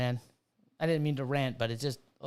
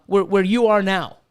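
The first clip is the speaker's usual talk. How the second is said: getting mad; 6 dB louder than usual. Real, not acted. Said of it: "I'm getting mad".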